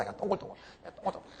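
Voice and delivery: giggling through the word; laughing. Real, not acted. Preacher delighted by the round little child, laughing. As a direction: chuckle it out, delighted.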